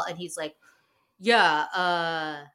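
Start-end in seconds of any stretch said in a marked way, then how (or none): 1.2-2.4 higher, louder put-on dodgy bro voice; mock evasive Kyle. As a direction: squirm out of the question like a caught bro. Mocking Kyle dodging the rumor.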